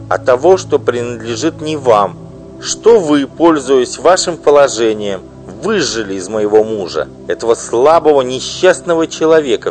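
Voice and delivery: loud, high, bitter tirade; furious wife. Acted. Wife denouncing her husband's mistress, furious loud outburst. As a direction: spit out the insults at her rival. Offended wife demands jewels.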